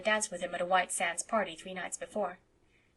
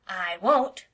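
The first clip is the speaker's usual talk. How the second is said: put-on louder, blunt boy's refusal; flat refusal; 8 dB louder than usual. A narrator's reading. Davy refusing Anne, flat and blunt. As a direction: shut it down like a stubborn child. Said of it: "said Davy flatly".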